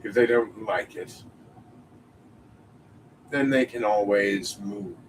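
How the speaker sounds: lightly voiced smug supervillain; a hint of a menacing villain; Batman villain voice. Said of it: "an original Batman villain's voice".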